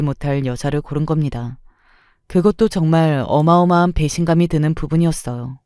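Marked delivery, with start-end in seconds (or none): none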